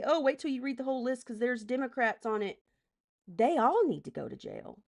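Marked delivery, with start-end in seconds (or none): 0.0-2.6 higher, mildly mocking imitation; put-on voice of an arguing commenter; mocking quote. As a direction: parrot the commenter's argument dismissively. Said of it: "if you're trying to say".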